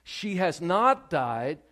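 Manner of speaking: slow, deliberate proclamation; preaching Jesus's words. Acted. Preacher proclaiming Jesus's promise over the dead girl, slow. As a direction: stretch every word out for weight. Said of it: "Jesus says in verse fifty-two".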